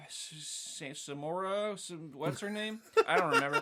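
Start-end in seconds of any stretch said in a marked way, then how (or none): 3.1-3.6 high exasperated squeak. Real, not acted. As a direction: pitch jumps way up, giving up. Forgetting name, voice jumps.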